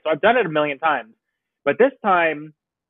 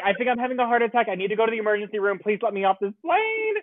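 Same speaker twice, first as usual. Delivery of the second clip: fast panicked pleading; 5 semitones higher, faster than usual. Retold or imitated. Begging to be let off plane.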